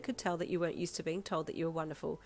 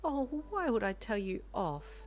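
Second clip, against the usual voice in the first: sudden surprise; 5 semitones higher than usual. Acted. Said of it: "she asked with sudden surprise".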